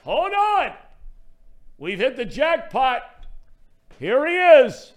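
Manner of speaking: high and loud, suddenly thrilled; excited. Real, not acted. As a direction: burst out like you hit the jackpot. Caller Zim suddenly joins the show.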